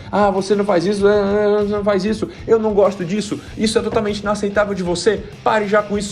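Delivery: irritated rambling. Retold or imitated. An irritated person picking a fight, mock nagging rant. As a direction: ham up an irritated person who won't stop talking. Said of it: "a pessoa tá irritada e ela tá tentando brigar".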